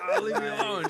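put-on very high, loud teenage protest; whiny yell. Teen telling mom off through door, high loud whine.

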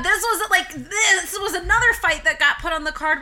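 laughing through the words, pitch up; laughing while talking. Real, not acted. Excited story about fight card.

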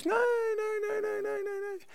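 high, soft string of rapid refusals; mock nervous denial. Peter denies Jesus by the fire, mock high-pitched denial. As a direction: squeak out the denials in imitation, very softly.

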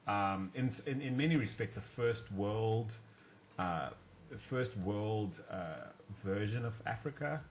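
halting, with slow start and filler pauses; hesitant. Real, not acted. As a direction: pick through the term reluctantly, pausing on "uh". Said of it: "I say that really hesitantly".

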